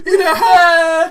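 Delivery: high, loud, wheezing with laughter; helplessly cracking up; laughing hard. Real, not acted. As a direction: squeal it out through real laughter.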